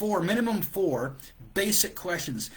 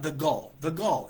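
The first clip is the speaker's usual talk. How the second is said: indignant scoff. Retold or imitated. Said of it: "I thought".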